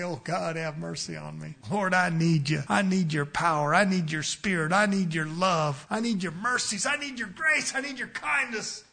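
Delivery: a hint of pleading prayer. Shown as a demonstration. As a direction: pray it humbly, line by line. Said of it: "And you'll find I say".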